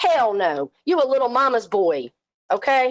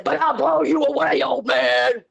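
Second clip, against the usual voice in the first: mock threat; 3 semitones higher than usual. Streamer mocking her online rival's threat, mock shout. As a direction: sneer it back like his own tough talk.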